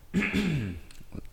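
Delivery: harsh throat clear from sinus trouble. Real, not acted. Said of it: "coughing a little bit here".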